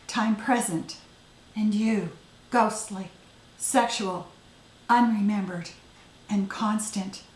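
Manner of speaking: intent poem recital, fragmenting into short paused phrases; poetry reading. Acted. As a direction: recite it, letting the last words fall away singly. Poet reading own poem aloud.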